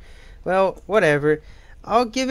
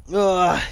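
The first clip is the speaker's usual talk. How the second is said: stretching groan; 3 dB louder than usual. Real, not acted. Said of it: "I'm stretching".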